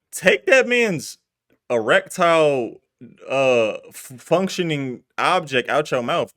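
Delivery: outraged, drawn-out scolding; exasperated rant. Real, not acted. Friend scolding Baby's loyalty to Thug, loud and slow. Ranting at Baby over Thug.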